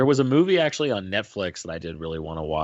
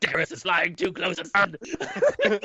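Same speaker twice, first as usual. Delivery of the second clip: monster announcing; 7 semitones higher, faster than usual. Retold or imitated. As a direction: announce it grandly with a pause. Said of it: "And he's like".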